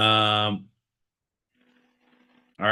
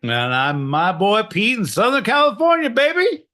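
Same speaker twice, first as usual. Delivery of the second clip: hyped signoff; 9 semitones higher, 5 dB louder than usual. Real, not acted. Host signing off the podcast, hyped up and loud. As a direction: sell the signoff like a hype man.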